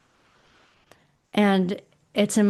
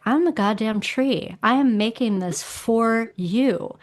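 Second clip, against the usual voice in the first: defiant tree voice; 3 semitones higher than usual. Retold or imitated. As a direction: speak as a fed-up oak tree that knows best. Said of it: "wood element is like".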